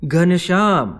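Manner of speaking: high, drawn-out shout of the name; loud call. A narrator's reading. Rampratap unable to bear it, calling Ghanshyam loudly. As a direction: call out hard, stretching the name. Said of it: "ફરી જોરથી સાદ કર્યો".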